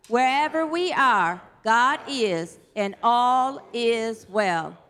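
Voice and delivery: measured, steady prayer recital; unison prayer. Acted. Pastor leading the congregation in a protection prayer, slow and steady. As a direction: lead the prayer slowly and deliberately.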